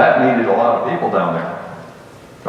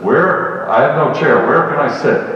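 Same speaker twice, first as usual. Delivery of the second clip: higher, louder mock of a smart-aleck cop; mocking the wiseguy; 4 semitones higher, 4 dB louder than usual. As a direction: needle him like the class clown. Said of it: "that's always that one, says".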